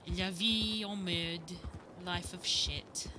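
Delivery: slow, drawn French phrases. Acted. Seraphine muses slowly in French accent. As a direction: savour each French word. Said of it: "That's kinda how she sounded".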